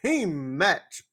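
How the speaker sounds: lightly done Teddy Long announcement. Retold or imitated. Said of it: "Long comes out and says".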